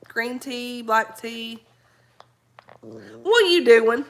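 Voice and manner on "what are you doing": slow stern question to a pet. Real, not acted. Scolding her dog.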